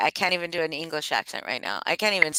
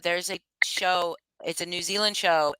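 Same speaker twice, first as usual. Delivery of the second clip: normal talking voice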